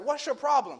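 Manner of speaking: loud, high scolding question; exasperated father. Retold or imitated. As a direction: act out a dad losing patience. Exasperated father confronts crying daughter.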